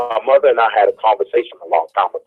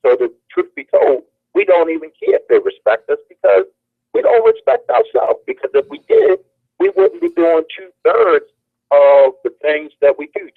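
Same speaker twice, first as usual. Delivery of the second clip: impassioned preaching; 7 semitones higher than usual. Real, not acted. Preaching peak about respect.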